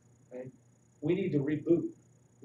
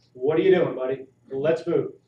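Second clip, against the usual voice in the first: put-on hurrying a child; 8 dB louder than usual. Parent hurrying son at bedtime.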